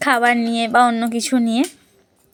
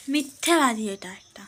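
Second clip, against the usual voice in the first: unvoiced whispered aside; whispering; 9 dB quieter than usual. Real, not acted. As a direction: whisper it behind his back.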